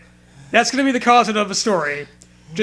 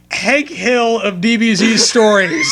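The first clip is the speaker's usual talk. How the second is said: raised, slow exclaim; amused shout; 3 semitones higher, slower than usual. Real, not acted. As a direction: shout it out delighted. Laughing exclamation.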